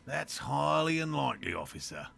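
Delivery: put-on lightly done Australian accent; a hint of a bad Australian accent. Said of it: "such a bad Australian accent".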